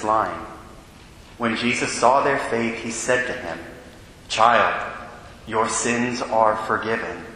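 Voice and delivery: solemn liturgical proclamation; Gospel reading. Acted. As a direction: read it like a deacon at the ambo.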